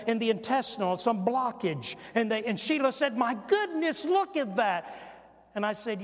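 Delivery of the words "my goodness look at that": imitated high-pitched astonishment; amazed exclamation. Wife to husband watching surgery on television, amazed exclamation.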